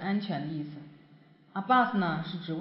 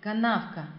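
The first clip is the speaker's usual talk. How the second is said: канавка with the middle а stressed; stress on second a; 2 semitones higher than usual. Shown as a demonstration. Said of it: "重音在这个第二个中间的啊上面".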